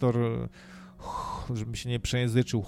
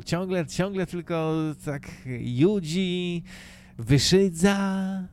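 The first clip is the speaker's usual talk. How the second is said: drawn-out, higher sneering pastor impression; mocking pastor; 5 semitones higher, slower than usual. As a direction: stretch the words in a put-on preacher voice. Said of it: "jakoś tak głos ciągle, ciągle z-, zmienia".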